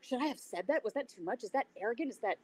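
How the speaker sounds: high-pitched anxious inner questioning; hammed-up worried inner voice, mostly hushed; barrage of self-doubt. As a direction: act out panicked second-guessing, one question on another. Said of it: "I'm having this barrage in my own head".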